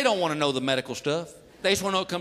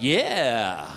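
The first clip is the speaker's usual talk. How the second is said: put-on kid blurting; 3 semitones lower, much slower than usual. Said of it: "son blurts out".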